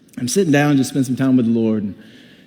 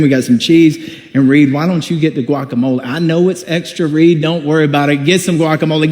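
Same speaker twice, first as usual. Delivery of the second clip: generous welcome. Pretend. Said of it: "what would it have been like".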